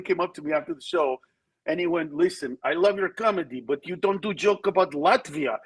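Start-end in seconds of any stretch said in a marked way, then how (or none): 2.1-5.6 put-on Latvian fan accent. Latvian fan complaining to comedian after the show, imitated accent. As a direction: imitate a Latvian fan's broken English.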